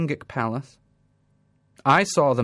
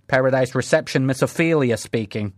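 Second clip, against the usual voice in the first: receptionist. Acted. Heavenly receptionist answers phone.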